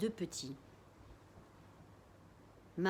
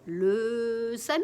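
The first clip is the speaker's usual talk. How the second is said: slow, stunned exclamation; dismayed echo; 2 semitones higher, 6 dB louder, much slower than usual. A narrator's reading. Girl realising the ambulance will expose the family. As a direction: repeat it as the danger dawns.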